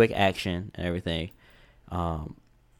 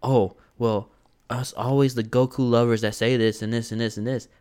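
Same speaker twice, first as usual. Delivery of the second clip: mocking Goku haters. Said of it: "people that'll say".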